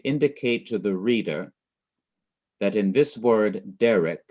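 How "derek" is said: derek with the stress on de, falling away on rek; stress on first syllable. Shown as a demonstration. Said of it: "you're going to emphasize the syllable".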